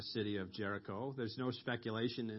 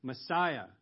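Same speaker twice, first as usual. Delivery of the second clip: mildly raised, retold call; crying out; 3 semitones higher, 4 dB louder than usual. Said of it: "And he cries out".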